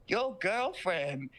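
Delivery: put-on slow, drawn-out creepy old lady; lightly voiced creepy mom, taking her time.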